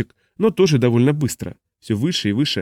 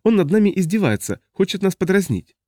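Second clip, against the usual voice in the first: suspicious alien; 8 semitones higher than usual. A narrator's reading. Smoky the alien suspects mockery.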